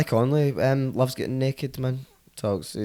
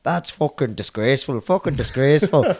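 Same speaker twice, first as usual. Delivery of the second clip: building outrage, louder at the end; outraged bystander; 4 semitones higher, 4 dB louder than usual. Retold or imitated. Irish guy following Billy, mock outraged scolding. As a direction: tut harder each time. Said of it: "the guy was still following him going".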